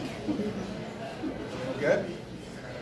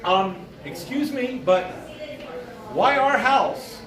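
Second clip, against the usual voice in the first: politely puzzled mother; slower than usual. Retold or imitated. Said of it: "My mother's like".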